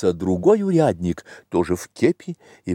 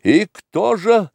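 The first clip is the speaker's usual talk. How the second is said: high, slow indignant exclamation; сердитое восклицание; 8 semitones higher than usual. A narrator's reading. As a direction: demand it with theatrical outrage. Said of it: "в свою очередь рассердился". (сердито, высоко и протяжно)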